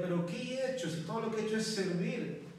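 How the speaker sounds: lightly acted plea of a wronged servant; bewildered protest. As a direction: ask it as a puzzled, pained protest. Acting Aaron's imagined protest to God.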